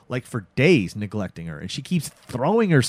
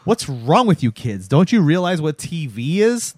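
mock exasperation, rising to louder; exasperated refusal; 4 semitones higher, 4 dB louder than usual. Actor telling kids he hunts no vampires, exasperated. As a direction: scold them with acted exasperation.

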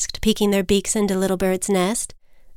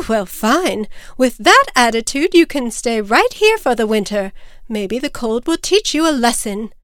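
emphatic, raised-voice telling-off; huffy mother; 3 semitones higher, 4 dB louder than usual. Acted. Mother bird leaves disobedient chick for winter, huffy. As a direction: give up on the child in exasperation.

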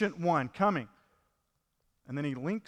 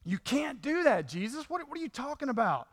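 higher, softer, slowed protest as Peter; Peter's rebuke; 7 semitones higher, 3 dB quieter than usual. Retold or imitated. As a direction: plead against it in a raised, hushed voice. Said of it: "Peter has this rebuke".

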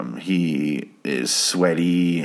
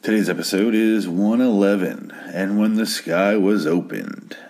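deep sultry voice; 2 semitones higher than usual. Pretend. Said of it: "Why am I doing such a deep, sultry voice?".

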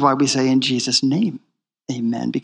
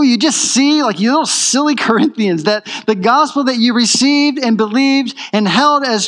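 mock-exasperated apostle, higher; Paul exasperated; 5 semitones higher than usual. Paul chiding the Corinthians, higher and exasperated. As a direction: scold them like a fond, exasperated teacher. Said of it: "he's saying".

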